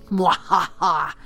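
spoken mock evil laugh; evil cackle. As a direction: toss off a playful villain laugh. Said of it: "Okay, couldn't resist".

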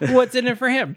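high, mock indignant question. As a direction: squeak it out in mockery. Echoing the mock line.

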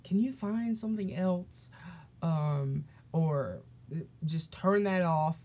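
curt, snippy request; rude tone. Retold or imitated. Substitute snapping at Malik across the room, rude. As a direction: make the ask sound rude and dismissive. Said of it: "She said it in, like, a really rude way".

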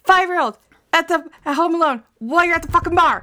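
put-on telling a friend her outrage at a mother leaving a child alone; outraged rant. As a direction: yell it in disbelief at the mother. Outraged reaction to the story.

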